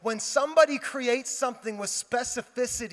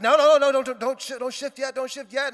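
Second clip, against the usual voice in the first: higher, imitated frantic coaching; urgent warning; 4 semitones higher, 6 dB louder than usual. Friend stopping pastor shifting too early, urgent warning. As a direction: burst in loud, then keep urging.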